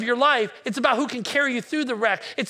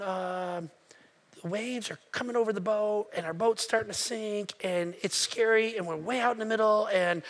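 sheepish explaining; 2 semitones lower, 5 dB quieter than usual. Retold or imitated. Boys sheepishly explain to Jesus.

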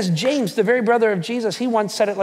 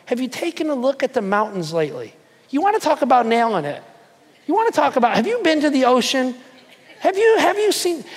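God scoffing, climbing higher and higher; mock God retort; 3 semitones higher than usual. God answering the boaster, rising incredulous retort. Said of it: "God's looking going".

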